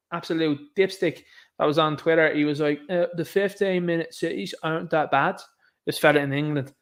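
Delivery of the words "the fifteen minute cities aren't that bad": put-on a rough stab at an English accent, lightly done; attempted English accent. Streamer mocking an English Twitter user, weak English accent. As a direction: imitate an English guy from Twitter in a clumsy English accent. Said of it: "if that accent was terrible".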